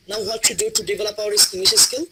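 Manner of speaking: slow, careful read-aloud; slow model reading. Shown as a demonstration. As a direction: read it out slowly for the student. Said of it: "reading পড়েন একটু kindly".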